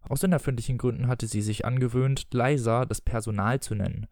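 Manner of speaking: expressive audiobook reading with voiced dialogue; story narration. A narrator's reading. Reading Peter Pan aloud to listeners, story narration. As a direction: read the tale aloud, measured and articulated.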